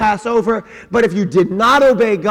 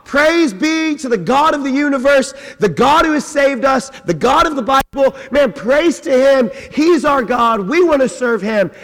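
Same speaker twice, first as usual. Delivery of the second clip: higher, lifted praise cry; joyful praise; 4 semitones higher than usual. Acted. Israelites across the sea praise God, jubilant. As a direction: celebrate God like the freed crowd. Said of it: "they sing a celebration song".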